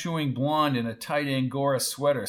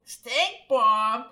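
high, offended question; high-pitched disbelief; indignant echo; 9 semitones higher, 4 dB louder than usual. A narrator's reading. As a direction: throw the insult back, scandalised. Lulu indignant at Wendell's insult.

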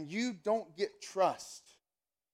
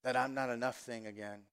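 low, soft sigh of self-doubt; mildly dejected muttering to oneself; resigned inner voice; 5 semitones lower, 6 dB quieter than usual. Acted. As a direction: voice a deflated thought, lower and quieter. Voices a discouraged inner thought.

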